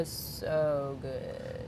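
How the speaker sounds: talking through a mouthful; mouth full. Real, not acted. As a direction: say it while chewing food. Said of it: "you finally got to take a bite".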